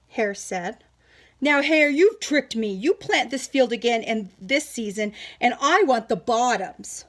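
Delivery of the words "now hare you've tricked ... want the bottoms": stern bear. Acted. Bear accusing Hare.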